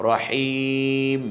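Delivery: রহিম chanted slowly, ending on bare ম; clean stop. Shown as a demonstration. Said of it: "বলছি কি".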